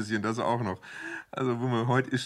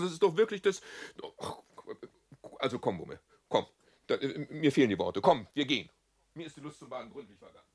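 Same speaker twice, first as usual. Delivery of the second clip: indignant father; 6 semitones higher, faster than usual. Acted. Father furious at other parents.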